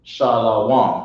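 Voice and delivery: "Shalawam" with an added wa sound; wrong pronunciation. Shown as a demonstration. Teacher mocking the wrong word. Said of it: "you damn sure don't wanna say".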